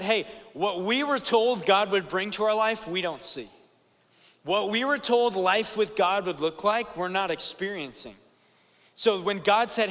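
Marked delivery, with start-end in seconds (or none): 0.0-8.2 complaining people. Retold or imitated. Israelites' complaint voiced.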